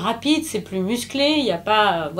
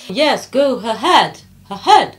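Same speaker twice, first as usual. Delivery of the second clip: lightly done very British accent, slow; 6 dB louder, slower than usual. Shown as a demonstration. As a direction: put on a posh British accent for go ahead. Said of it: "de l'accent très british".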